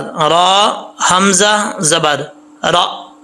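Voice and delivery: very slow spelling-out of रा हमज़ा ज़बर रा, with हमज़ा jolted; hamza with a jolt. Shown as a demonstration. Teacher drills the jolted hamza, very slowly. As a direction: stop hard on the हमज़ा in रा हमज़ा ज़बर रा. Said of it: "कैसे पढ़ेंगे झटके के साथ".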